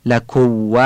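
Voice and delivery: لکو with the م dropped into the و; wrong merged mim. Shown as a demonstration. Teacher shows the mistake لکو. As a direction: swallow the م: لکو. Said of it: "غلطه".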